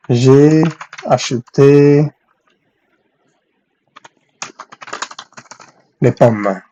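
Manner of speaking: drawn-out words with long gaps; slow dictation. Shown as a demonstration. Teacher composing a new French example for students, slow dictation. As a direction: dictate it piece by piece.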